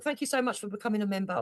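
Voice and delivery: soft, mocking thank-you; mocking echo. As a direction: quietly parody someone's thanks. Mockingly echoes the clip's thanks.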